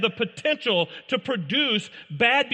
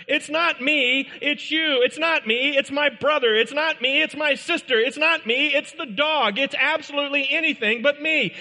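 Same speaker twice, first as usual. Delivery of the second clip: put-on higher, singsong childish excuses; whiny blaming kid; 5 semitones higher than usual. Preacher mimics a child blaming everyone, whiny and high. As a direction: mimic a kid dodging blame, pitched up.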